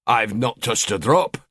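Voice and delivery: slow, innocent denial of drinking; lying. Acted. Husband lying about drinking, slow and innocent. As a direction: deny it slowly, feigning innocence. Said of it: "he lied".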